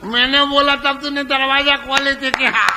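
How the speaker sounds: husband inside turning the tables on his wife; gloating husband. Retold or imitated. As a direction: taunt her back through the door.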